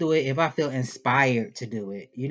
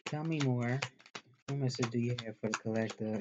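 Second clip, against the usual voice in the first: raggedy morning voice; rough and sleepy, a bit fast; just woke up voice; 7 dB quieter than usual. Real, not acted. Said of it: "It's that just woke up voice".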